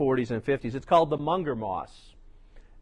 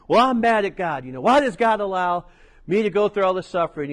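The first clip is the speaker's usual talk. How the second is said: louder mock anger, pushing; angry complaint; 4 semitones higher, 4 dB louder than usual. Preacher retelling the brother's angry complaint, louder. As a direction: complain hotly to God. Angry man voiced in story.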